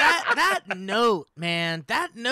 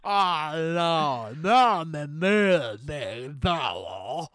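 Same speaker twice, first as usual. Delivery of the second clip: Jeff Bridges impression; 2 semitones lower, slower than usual. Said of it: "Jeff Bridges".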